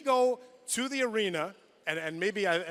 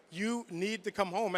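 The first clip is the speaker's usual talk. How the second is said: softer, slow, heavy repeat of "come home"; quiet pleading; 5 dB quieter than usual. Retold or imitated. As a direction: let it drop, quietly insisting. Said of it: "something different in her voice".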